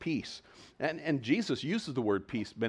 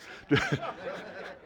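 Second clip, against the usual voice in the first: high-pitched startled sound, acted out; sudden high mock-shocked noise. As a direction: imitate a disciple's startled reaction. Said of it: "who saw him was going".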